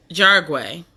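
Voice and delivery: Jargway said as a tentative guess, JAR-gway; guessed pronunciation. Shown as a demonstration. Host guessing at guest's last name, tentative pronunciation. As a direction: try "Jargway", unsure of the name. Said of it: "I've been butchering it in my head".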